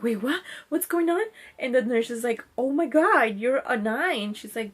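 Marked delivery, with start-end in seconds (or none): 0.0-1.3 mildly startled, rising in pitch and volume; higher, louder mock bewilderment; retold surprise. Reacting to being nine centimeters. 2.6-4.3 louder, higher retold amazement; mildly astonished, starting loud and high; amazed nurse.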